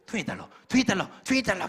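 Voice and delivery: loud, high, repeated demand; hammed-up nagging cry for money; insistent vendor. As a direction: imitate a pushy hawker chanting the price. Imitates camel driver's insistent demand.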